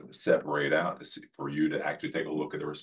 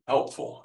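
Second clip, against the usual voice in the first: the word Helpful said alone and set apart; stress on helpful; 4 semitones higher than usual. Shown as a demonstration. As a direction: lean on Helpful as the key word. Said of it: "emphasis on the helpful".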